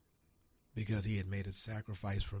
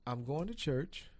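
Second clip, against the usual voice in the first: pitched-up, slower plea to the Lord; retold prayer, higher and slower; higher pleading; 9 semitones higher, slower than usual. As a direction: plead up high, drawing it out. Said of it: "I said".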